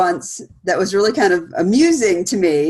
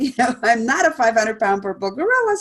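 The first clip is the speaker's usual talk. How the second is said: amused dismissal; 3 semitones higher than usual. Retold or imitated. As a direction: chuckle through "I'm not a five hundred pound purple gorilla" as if it's absurd. Quoted reply, set against plain restatement.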